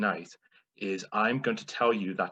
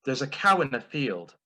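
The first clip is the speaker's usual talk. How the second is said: flustered mum impression; 3 semitones higher than usual. Son imitating his mum getting it wrong, flustered. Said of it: "in the style of my mum".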